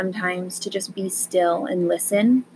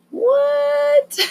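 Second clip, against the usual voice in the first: squeaky high fake disbelief; a cartoonish gasp of surprise; mock shocked what; 3 dB louder than usual. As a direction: play the stunned listener, way up high. Acting the listener's shock.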